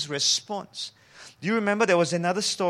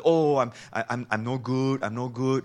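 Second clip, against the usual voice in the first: self-deprecating; 5 semitones lower than usual. Acted. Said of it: "trying to put yourself down".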